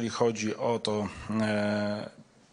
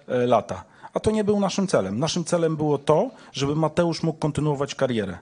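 raised, higher-pitched, irritated retort; real exasperation, louder and higher; heated rebuttal; 5 semitones higher, 3 dB louder than usual. Real, not acted. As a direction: argue back forcefully at a pressing questioner. Heated exchange with pressing reporter.

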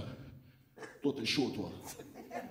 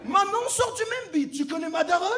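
high, lightly voiced pal; hammed-up friendly tough; mock buddy voice; 11 semitones higher, 5 dB louder than usual. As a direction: play the overfriendly big guy. Imitating smooth-talking big guy.

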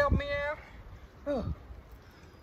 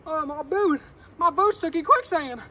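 sinking in quicksand; 3 semitones higher, 7 dB louder than usual. Pretend.

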